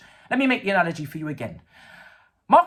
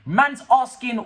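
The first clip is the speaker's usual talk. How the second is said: raised, louder burst of outrage; sudden higher, louder indignation; indignant outburst; 5 semitones higher, 5 dB louder, slower than usual. Real, not acted. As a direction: blurt it out, fired up. Indignant fan rant.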